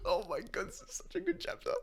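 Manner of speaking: giddy fan who just read a great chapter; thrilled gush. Real, not acted. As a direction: squeal over how good the chapter is.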